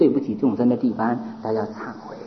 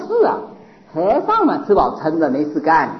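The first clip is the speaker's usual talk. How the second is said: mocking youth. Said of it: "他有意在那捣蛋".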